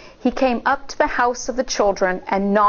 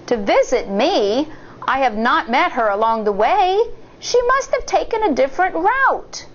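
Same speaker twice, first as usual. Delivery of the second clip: acted surprise; 5 semitones higher than usual. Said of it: "The wolf acted surprised".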